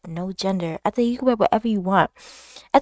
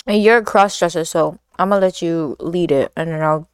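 talking while chewing pineapple; words round a bite of fruit; mouth full; 3 semitones lower than usual. Real, not acted. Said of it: "if you hear me chewing loud".

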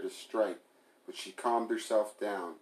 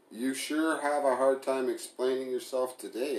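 mild sneer, a bit higher; 5 semitones higher, 4 dB louder than usual. Acted. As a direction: taunt him with a light sneer. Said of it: "Emily sneered".

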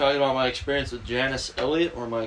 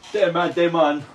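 mocking Damon voice; 4 semitones higher, 5 dB louder, slower than usual. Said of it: "That's how you said it".

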